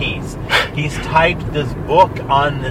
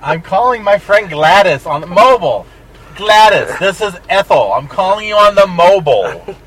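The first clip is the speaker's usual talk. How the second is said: put-on higher, chatty old lady on the phone; 3 semitones higher, 5 dB louder than usual. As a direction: play a fussy old lady calling a friend. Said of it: "'Cause I'm an old lady".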